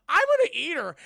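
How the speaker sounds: very loud, high monster growl; hammed-up monster threat; hungry monster. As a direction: menace the prey. Voicing hungry monster head.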